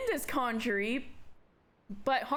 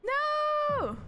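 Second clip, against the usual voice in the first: anguished shout. Acted. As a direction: wail it out in horror. Character's shocked outcry.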